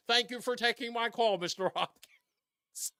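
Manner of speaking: lightly voiced polite caller, the Mister Hopkins slowed right down; a hint of the earnest caller, unhurried; the host's caller voice. Host imitating the caller thanking him, lightly voiced and slow. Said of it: "he would be like".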